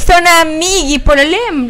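gritando al otro lado de la sala. Real, not acted. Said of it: "perdón, estoy gritando".

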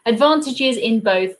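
slow British reading, 'advantages' with long 'ah'; UK accent. Shown as a demonstration. Streamer rereading after slipping accents, British accent. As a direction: correct it into southern English pronunciation. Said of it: "Northern or American accent there".

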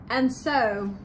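drawn-out playful read to little listeners; reading to children. A narrator's reading. Co-host reading her turn of the story to children. Reads book aloud.

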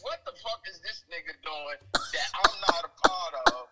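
animated caller on a phone line; phoned-in podcast guest; voice over phone. Real, not acted. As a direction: talk like a hyped call-in guest. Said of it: "we got the guest on the phone right now".

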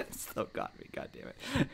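high, breathy laughing through the words. Real, not acted. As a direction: laugh it out, half annoyed. Laughing at being caught again.

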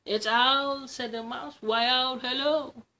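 a tiny creature's cheery hello; mouse voice. Acted. Mouse greets Owl, high and chirpy.

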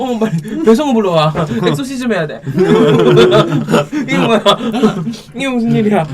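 loud, high, laughing panic; laughing shriek. Real, not acted. Shocked by spicy bite.

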